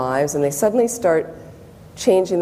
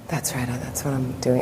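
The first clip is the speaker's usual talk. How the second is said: quiet affirmation; 6 semitones lower, 6 dB quieter than usual. Retold or imitated.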